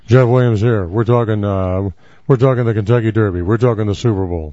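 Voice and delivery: bouncy sportscaster intro; frantic mock sports commentary. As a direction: announce it like a TV sports anchor. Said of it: "it sounded like a sportscaster".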